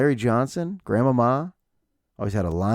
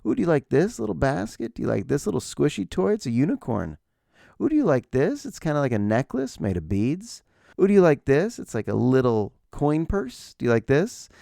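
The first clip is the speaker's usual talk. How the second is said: mock calm coaxing; 4 semitones higher than usual. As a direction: coax a child sweetly while hiding impatience. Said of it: "I was so cool, calm, and collected".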